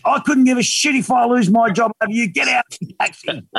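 high-pitched defiant cabbie; mock angry driver. Cab driver throwing out his passenger, mock angry defiance. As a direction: imitate a driver past caring, raging without volume.

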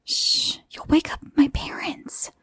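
half-whispered shushing; hushed warning. A narrator's reading. Boy fears waking his parents, hushed warning. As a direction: shush them in an urgent stage whisper. Hushing friend while parents sleep.

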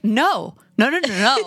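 rapid-fire run of noes, rising; emphatic refusal. Acted. Rejecting a film's listing as comedy, emphatic refusal. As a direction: refuse it outright, no after no.

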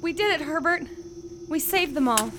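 soft, low, grieving murmur; quiet grief. Acted. Pilot mourning Herbert after the mission, softly. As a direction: speak softly to the one you lost. Grieving partner thought dead.

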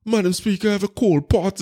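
a mild send-up of a filler-laden speech; mock politician. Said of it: "where you say".

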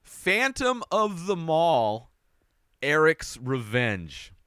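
slow, dramatic announcing of "Phantom of the Mall, Eric's Revenge"; dramatic title reveal. Shown as a demonstration. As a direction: draw out "Phantom of the Mall" like a trailer. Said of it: "Number five, my fifth favorite".

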